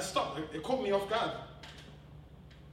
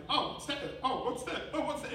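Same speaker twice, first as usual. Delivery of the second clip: mock surprise; 6 semitones higher than usual. Son's surprise at search results acted.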